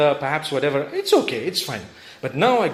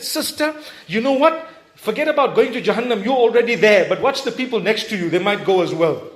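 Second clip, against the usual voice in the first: higher, scornful mock sermon; mocking judge; 4 semitones higher than usual. Judgemental stranger condemning the sister, mocking. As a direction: mimic a harsh judgemental voice.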